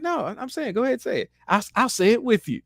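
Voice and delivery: high, teasing insistence; black actor daring the white actor, high and teasing; mock permissive actor. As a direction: dare him in a high voice. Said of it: "He's like".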